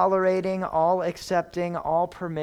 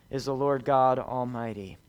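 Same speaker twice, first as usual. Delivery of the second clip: fading to a whisper; 4 semitones lower, 5 dB quieter than usual. Shown as a demonstration. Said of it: "repeats the verse, fading".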